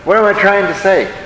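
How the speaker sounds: a hint of King James cadence; mock biblical phrasing. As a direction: fold it into the verse like old prophecy talk. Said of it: "This is how they talk".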